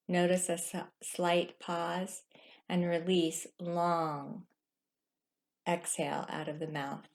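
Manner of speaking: drawn out on release long, fading at the end; slow cue for a long exhale; slow guided exhale. Shown as a demonstration. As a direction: stretch the words like a long exhale. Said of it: "Try that again".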